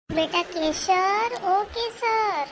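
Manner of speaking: slow drawn-out call to Kesar; mother calling her daughter, slow and drawn out. Acted. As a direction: call her name across the yard. Mother calls daughter from afar.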